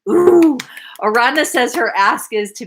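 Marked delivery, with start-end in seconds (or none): 0.1-0.6 a high, loud, thrilled ooh; light up at the student's bold ask; delighted ooh. Real, not acted. Coach reacting to a student's big ask, delighted.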